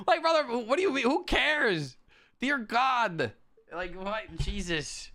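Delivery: God voice. Pretend. Streamer scolding the complaining guy in a booming divine voice. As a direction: proclaim it like an exasperated god from above. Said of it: "The God voice has W W E vibes".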